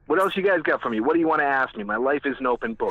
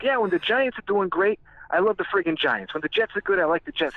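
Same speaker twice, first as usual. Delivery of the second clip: mock fan enthusiasm; 6 semitones higher than usual. Acting out fickle fans.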